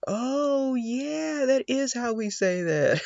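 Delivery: high surprised oh yeah; light up at the translation; surprised realization. Retold or imitated. A learner seeing the English translation, high and surprised.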